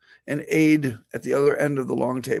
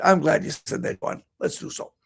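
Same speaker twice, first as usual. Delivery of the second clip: lightly imitated Boston accent of an old senator; understated Boston senator accent impression; Kennedy accent. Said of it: "my best attempt at a Kennedy accent".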